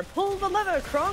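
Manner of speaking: high commanding cartoon-villain call, "Pull the lever, Kronk!"; Yzma quote. Friend quotes Yzma ordering Kronk, high-pitched villain bark. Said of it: "The Emperor's New Groove is one of those movies that has a quote".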